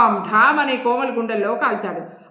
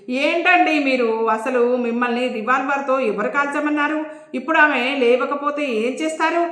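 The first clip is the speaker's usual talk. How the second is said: mild angry shout; 2 semitones higher than usual. Acted. Scolding the man who fired the revolver, mild shout. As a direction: tell him off for shooting her. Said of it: "గట్టిగా అరుస్తూ అన్నాడు".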